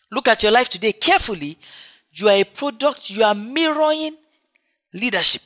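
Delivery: insistent sermon delivery; exhorting preacher. Real, not acted. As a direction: press the warning home to the congregation. Exhorts the congregation.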